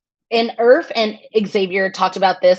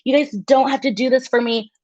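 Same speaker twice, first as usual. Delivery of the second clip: lightly raised, gracious imitation; Hannah's gracious voice; 5 semitones higher than usual. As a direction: imitate her humble brushing off. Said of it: "she even said".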